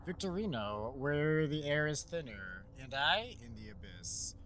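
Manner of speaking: slow, grave recital of a lament; solemn note reading. Acted. Reading the monks' note aloud, slow and grave. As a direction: read it like a mournful confession, slowly.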